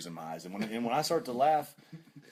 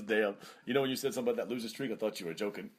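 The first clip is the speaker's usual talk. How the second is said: Shelton impression; faster than usual. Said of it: "Was that your Shelton impression?".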